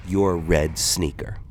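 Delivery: loud, slow taunt; taunting buddy. Retold or imitated. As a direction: sneer it at him. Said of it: "He said".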